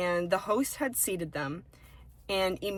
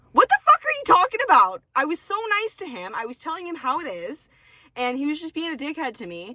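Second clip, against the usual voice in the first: much higher, louder incredulous outburst; retold outrage; 8 semitones higher, 7 dB louder than usual. Retelling her answer to the manager's smile advice, loud incredulous outrage. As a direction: explode in disbelief at the advice.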